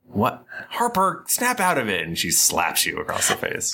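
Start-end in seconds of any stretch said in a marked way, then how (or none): 0.7-2.0 sharp command. Acted. Adira slaps him awake.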